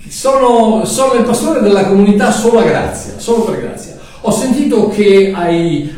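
a lightly voiced eager pastor; cheerful pastor. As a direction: greet him like a beaming church pastor. Pastor character greets Mario.

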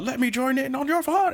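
mock villain line. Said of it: "he gives a little speech about".

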